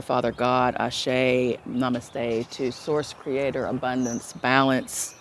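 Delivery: slow, measured spiritual benediction; closing blessing. Real, not acted. Blessing Gaia, Source and all listeners, slow benediction.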